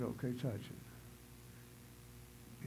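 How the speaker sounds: a hushed, slow, breathless voice of God; barely voiced, slow and gentle like a whisper; still small voice. God answering the preacher in a still small voice. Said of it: "he said in that still small voice".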